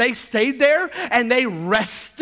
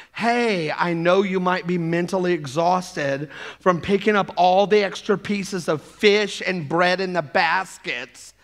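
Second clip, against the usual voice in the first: gentle suggestion; 4 semitones lower than usual. Pretend. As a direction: ask sweetly like a considerate boss. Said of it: "I would like the tone of".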